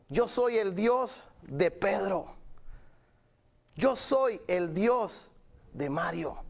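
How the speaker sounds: slow repeated declaration, long pauses between names; slow, deliberate roll call. Retold or imitated. Preacher voicing God claiming each believer, slow deliberate declaration. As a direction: proclaim it unhurriedly, letting every name land.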